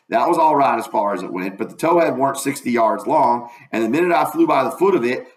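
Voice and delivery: folksy Southern storytelling; lightly voiced dialect narrator; first-person dialect narration. A narrator's reading. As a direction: read it as a country boy's yarn.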